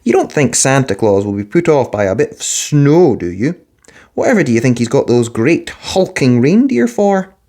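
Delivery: a hint of a firm, reassuring father; Dad firmly. A narrator's reading. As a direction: set him straight, gently firm. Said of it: "said Dad firmly".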